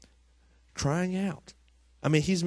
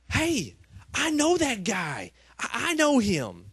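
excited; 9 semitones higher, slower than usual. Retold or imitated. Elf excited recognition retold.

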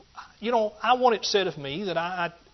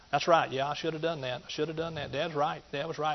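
quiet self-admission; 6 dB quieter than usual. Retold or imitated. Conceding his dad was right.

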